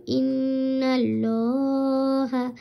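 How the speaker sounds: ইন্নাল্লাহা with the lam said full and round; ইন্নাল্লাহা, heavy rounded lam, drawn out; full heavy Allah. Shown as a demonstration. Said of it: "এভাবে পড়তে হবে".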